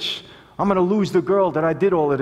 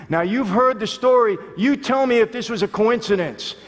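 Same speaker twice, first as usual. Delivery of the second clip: ordinary talk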